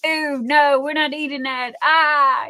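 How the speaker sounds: disgusted refusal. Retold or imitated. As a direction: recoil from the old salad, half-joking. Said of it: "And my head went".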